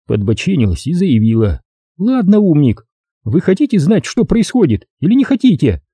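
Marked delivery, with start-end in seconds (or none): 2.0-5.8 angry. A narrator's reading. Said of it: "Девица страшно рассердилась".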